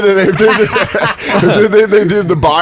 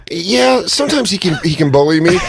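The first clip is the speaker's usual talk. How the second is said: reluctant admission. Retold or imitated. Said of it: "I go like this".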